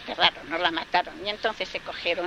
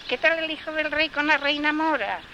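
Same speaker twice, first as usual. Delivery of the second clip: higher, lilting question; lightly voiced dove; 8 semitones higher than usual. A narrator's reading. Dove asking the gardener about the prince, high and lilting. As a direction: ask sweetly and sadly.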